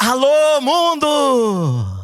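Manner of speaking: booming, high, swooping full-lung shout, mundo stretched long. Recalling the man at the small radio shouting his greeting, retelling a full-lung shout. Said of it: "você gritou a plenos pulmões".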